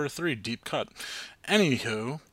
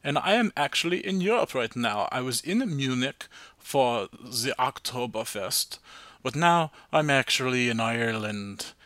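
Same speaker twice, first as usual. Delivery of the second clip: a light, playful put-on German accent; mock German accent. Host greeting listeners from Europe in a light mock German accent. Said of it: "I'm gonna stop talking with an accent".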